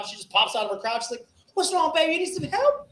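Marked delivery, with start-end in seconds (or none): 1.5-2.9 high-pitched imitated woman; beautiful woman. Comic voicing a woman offering help, high-pitched coo. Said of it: "beautiful chick comes out".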